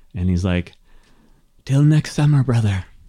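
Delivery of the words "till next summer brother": loud theatrical whisper. Voicing a departing halfling turning back to a player: loud whisper. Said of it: "he kind of whispers loudly".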